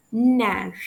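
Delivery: "Nerf" ending open, like "nair"; silent F. Shown as a demonstration. French teacher repeating the model, silent f in "Nerf". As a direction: drop the final f of "Nerf". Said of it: "I don't pronounce the letter F".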